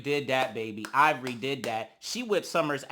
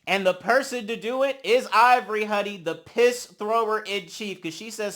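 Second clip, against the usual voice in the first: ordinary talk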